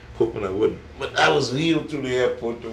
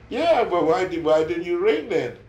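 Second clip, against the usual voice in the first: raised, high-pitched challenge; scolding question; 8 semitones higher, 5 dB louder than usual. Real, not acted. Host asking visitor why he didn't ring, scolding. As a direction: call it out loudly, demanding an answer.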